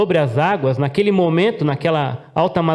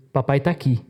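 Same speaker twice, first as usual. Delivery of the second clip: reassuring father; 2 semitones lower than usual. Retold or imitated. Father soothing his frightened son.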